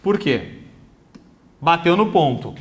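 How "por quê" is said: slow dictation. Shown as a demonstration. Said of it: "Se eu colocar assim".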